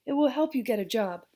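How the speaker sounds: lightly voiced Spanish-accented grandma; a hint of a thick Spanish accent, teasing. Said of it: "With her thick accent".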